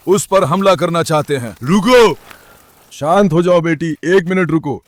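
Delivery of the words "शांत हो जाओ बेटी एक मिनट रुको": soothing. Real, not acted. Owner soothes barking dog.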